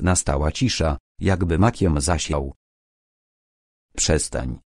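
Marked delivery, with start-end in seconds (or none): 4.0-4.6 put-on lower, drawn-out old man's voice; old sorcerer repeating. A narrator's reading. Sorcerer Karapana repeats his warning to Koneso, drawn out. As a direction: repeat it slowly like a weary elder. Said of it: "powtórzył Karapana".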